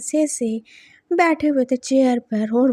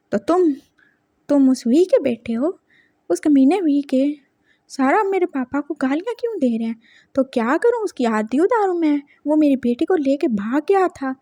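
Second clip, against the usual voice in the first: mild angry grandfather, building resentment; understated anger at the hated son-in-law. Acted. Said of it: "ऐसे गुस्से से ही बोल रहा था".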